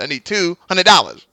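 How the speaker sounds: sly mocking repeat of the price. Podcast host imitating the guy mocking the cameraman: mild mockery. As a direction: needle him as you quote the demand. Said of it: "mocking the guy".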